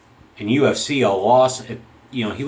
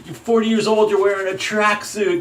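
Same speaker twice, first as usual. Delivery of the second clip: bad Irish accent; 11 semitones higher than usual. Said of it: "I don't do an Irish accent".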